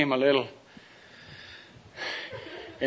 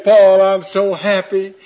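happy; 5 semitones higher, 7 dB louder than usual. Acted. Michelle in Paul's arms.

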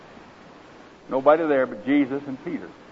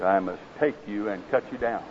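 grave master; 4 semitones lower, 4 dB quieter than usual. Acted. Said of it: "was grave".

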